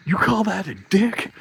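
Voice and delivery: high, slow put-on taunting voice; mocking taunt. Buddy taunting the biker at the urinal, high mocking voice. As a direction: drawl it out like a jeering drunk. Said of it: "My buddy looks over and goes".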